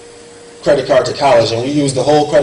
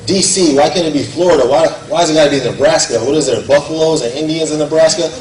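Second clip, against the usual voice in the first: frustrated rant; 2 semitones higher than usual. Retold or imitated. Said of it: "I was mad, I was frustrated".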